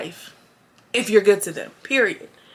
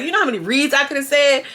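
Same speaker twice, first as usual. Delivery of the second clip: mimicking Bobby; 5 semitones higher, faster than usual. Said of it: "That's my new thing".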